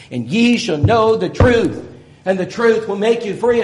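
scripture reading. Acted. Reading scripture passage aloud.

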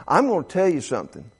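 ordinary talk

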